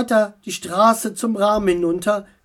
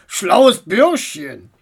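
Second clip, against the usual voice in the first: slow, louder grin; grinning bulldog; 5 dB louder, much slower than usual. Acted. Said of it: "grinste die Bulldogge".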